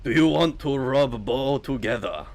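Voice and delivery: mock Boater accent proposition; comic Boater-accented come-on. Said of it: "Boater accent".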